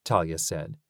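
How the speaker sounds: put-on high, quick little girl's voice; child character voice. A narrator's reading. Talia voiced by narrator.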